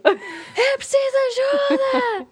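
huge drawn-out high boom with a laugh in it. Retold or imitated. Shouting out of the car window to the people at the burning car, booming voice. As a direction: bellow the offer of help, slow and theatrical. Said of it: "com um vozeirão".

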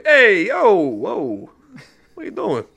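very high mock-alarmed wiseguy; alarmed Italian guy. Italian wizard stopping attacks on Italians, high alarmed yelp. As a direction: yelp like a wiseguy protecting his people. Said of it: "He's like".

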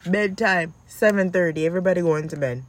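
firm, loud bedtime order; stern command. Shown as a demonstration. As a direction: lay down the law. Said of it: "watch how I do it".

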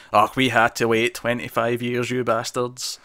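lightly put-on Scottish old man grumble; a hint of a grumpy old Scot. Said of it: "I did a really Scottish old man voice there".

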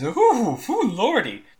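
put-on old man recoiling from a ripe body, high then settling; squeamish old man. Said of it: "he says".

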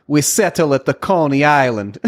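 put-on laughing through a Russian accent. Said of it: "Russian comedian".

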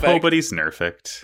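Pobody's nerfed said slow and deliberate; drawn-out Pobody's nerfed, swapped sounds; spoonerism. Shown as a demonstration. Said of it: "did you say Pobody's nerfed".

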